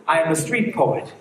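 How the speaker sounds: low, slow closing refrain; spoken-word poetry. Acted. Street poet ending his poem, measured spoken word. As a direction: bring the poem to a deliberate close, pausing before the last word.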